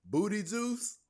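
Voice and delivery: high rising question before a laugh; amused disbelief. Real, not acted. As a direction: squeak it out as if astonished. Repeats a nickname, cracking up.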